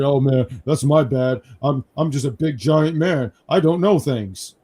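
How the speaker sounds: slow, lightly voiced dopey big guy; mild mock of a slow-witted friend; imitating the consultant. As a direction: drag it out like a clueless giant. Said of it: "That's how he sounded".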